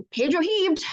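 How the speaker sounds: ordinary delivery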